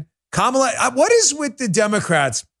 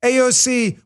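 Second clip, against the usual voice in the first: ordinary talk, nothing marked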